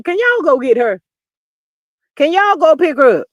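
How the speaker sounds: acted-out urgent demand for help; urgent plea. Acting out urgent 911 call.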